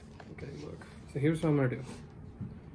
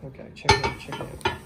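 hushed, breathy-free whisper to the camera. Real, not acted. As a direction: keep it down, just whispered. Whispering so family won't hear.

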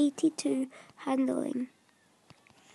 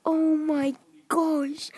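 awed whisper; 4 dB louder, slower than usual. Real, not acted. Reacts to the rated card.

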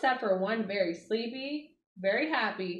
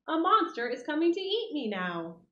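mock panic; 5 semitones higher than usual. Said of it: "he cried".

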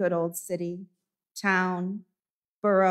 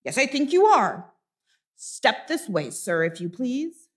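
mock stern reprimand; 3 semitones higher than usual. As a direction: lay on the sarcasm. Master reprimands late clerk.

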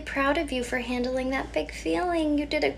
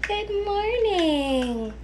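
slow, higher, stretched out; sing-song morning greeting; 5 semitones higher, much slower than usual. Acted. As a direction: wake the baby gently. Greeting baby.

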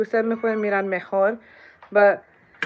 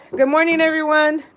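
louder, higher good morning to all; loud greeting; 4 semitones higher, 7 dB louder than usual. Real, not acted. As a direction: announce yourself to the chat.

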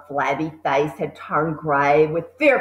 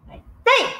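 angry accusation. A narrator's reading. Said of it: "said Trunchbull".

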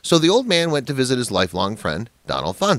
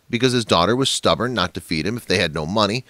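ordinary delivery

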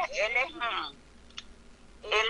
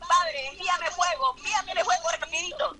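higher, slowed, urgent plea to God; imitated prayer for fire; 6 semitones higher than usual. Believer praying to the Father for fire, raised mock plea. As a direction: cry out for the fire to come quickly. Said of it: "cuando uno le dice".

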